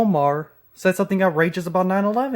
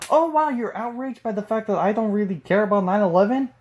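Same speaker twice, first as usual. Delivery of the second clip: mock outrage; 4 semitones higher than usual. Mocking the opponent's outrage.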